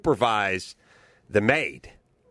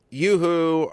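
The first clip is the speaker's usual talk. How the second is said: mock sing-song call; 4 semitones higher than usual. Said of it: "she said".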